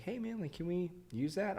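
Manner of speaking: lightly voiced reporter asking a favour; a hint of a newscaster; imitating the reporter. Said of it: "they're like".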